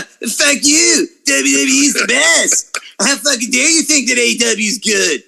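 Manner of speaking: high-pitched put-on fan rant; mock outraged fan. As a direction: mimic an indignant fanboy. Mimicking outraged WWE fans.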